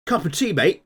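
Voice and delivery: high, loud exaggerated British Asian accent. Host imitating a TV show guy, British Asian accent. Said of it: "British Asian, like ... guy with the really".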